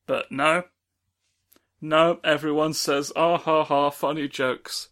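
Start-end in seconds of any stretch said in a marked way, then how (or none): 3.2-4.9 fake laugh. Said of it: "They don't even laugh".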